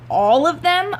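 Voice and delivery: high, incredulous question; shocked sister. Acted. Sister asking her mother in disbelief, high and shocked. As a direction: voice shooting up in disbelief.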